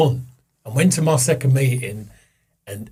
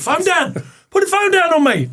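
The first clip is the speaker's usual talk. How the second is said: laughing. Real, not acted. Laughing in disbelief at sponsor.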